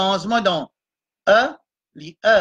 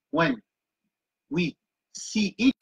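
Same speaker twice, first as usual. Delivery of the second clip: slow "when", a pause, then "we see it"; teacher repeating the phrase for learners; slow repeated phrase; 4 dB quieter, slower than usual. Shown as a demonstration. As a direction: break the phrase apart and say it slowly.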